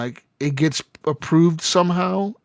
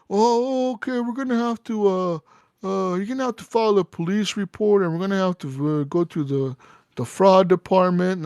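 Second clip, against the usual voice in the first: mock bank manager; 4 semitones higher than usual. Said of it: "They were like".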